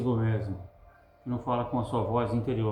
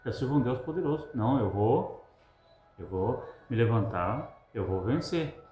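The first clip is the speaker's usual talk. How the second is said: inner voice. Acted. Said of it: "com sua voz interior".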